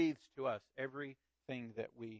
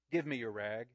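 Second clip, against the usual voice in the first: gently. Acted. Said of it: "he said so gently".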